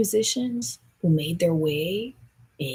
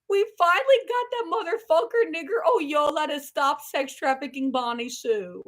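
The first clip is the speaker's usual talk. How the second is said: triumphant whisper; 12 semitones higher, 5 dB louder than usual. Pretend. Gloating over defeated enemy.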